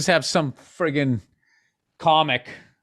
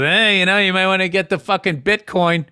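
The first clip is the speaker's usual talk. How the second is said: imitating Andrew; 5 semitones higher than usual. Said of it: "Andrew's eyebrow just goes".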